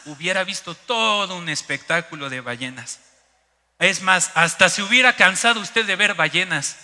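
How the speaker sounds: lightly voiced know-it-all local; imitating local commenters. Local telling the tourist he came on the wrong date, imitated reproach. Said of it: "comentarios que me decían".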